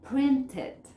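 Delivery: "Print it" joined as prin-tit; linked words. Shown as a demonstration. Teacher giving an easy example, words linked. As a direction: carry the t of "Print" onto "it". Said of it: "esas son linkings".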